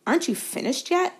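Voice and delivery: high, amazed call across the field; can't believe they're still at it; incredulous call. A narrator's reading. Ron calls to Harry from the stands, incredulous. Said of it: "called Ron incredulously".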